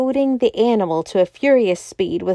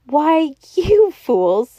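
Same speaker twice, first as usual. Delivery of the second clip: high, drawn-out exclamation; excited cry; 7 semitones higher, 4 dB louder, much slower than usual. A narrator's reading. Doctor Bull to his companions, crying out. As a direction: cry it out slowly, pitched well up. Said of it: "he cried".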